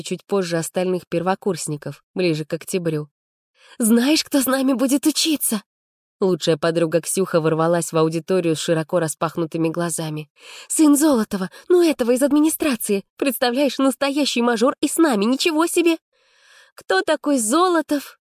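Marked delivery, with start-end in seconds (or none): 3.8-16.0 excited gossip. A narrator's reading. Best friend Ksyukha bursts in with news, excited. 16.8-18.2 bored yawn. A narrator's reading. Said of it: "скучающе зевнула Арина".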